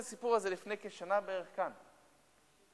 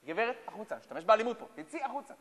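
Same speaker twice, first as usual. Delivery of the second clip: annoyed; 5 semitones higher, 5 dB louder than usual. Acted. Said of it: "הילדים כבר ממש התעצבנו".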